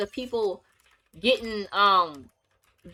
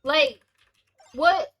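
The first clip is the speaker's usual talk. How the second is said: much higher, incredulous outburst; stunned disbelief; 8 semitones higher than usual. Retold or imitated. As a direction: react like you can't believe it. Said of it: "And I'm like".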